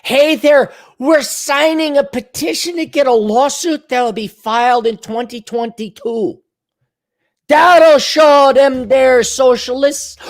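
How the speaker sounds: high, chirpy pitch ending in a slow shout; hammed-up campaign pitch; mock Republican email. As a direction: read it like a peppy fundraiser. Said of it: "Republicans are sending me an email".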